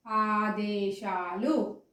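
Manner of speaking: slow, clear ఆదేశాలు with plain దే; teacher's drawn-out ఆదేశాలు; unaspirated దే. Shown as a demonstration. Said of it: "దే అంటున్నా".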